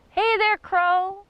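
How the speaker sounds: high, loud, drawn-out greeting; calling out. Acted. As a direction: call up to a bird on a pole, slowly. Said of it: "And I said".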